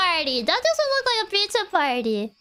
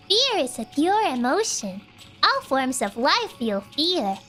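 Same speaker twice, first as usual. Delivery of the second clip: calm and eerie, like a cult elder; creepy calm cultist; 3 semitones lower than usual. Acted. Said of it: "you do this cultist voice is too good".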